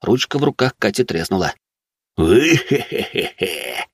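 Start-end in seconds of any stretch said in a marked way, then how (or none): 2.2-3.9 slow evil snicker; slow hammed-up evil laugh; villain laugh. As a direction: cackle like a villain. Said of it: "злодейскую рожу скорчил".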